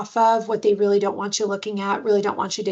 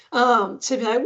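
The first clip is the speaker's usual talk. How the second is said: ordinary talk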